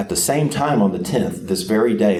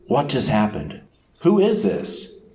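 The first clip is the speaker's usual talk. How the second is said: bewildered townsfolk; 5 semitones higher than usual. Retold or imitated. The city stirred by the procession.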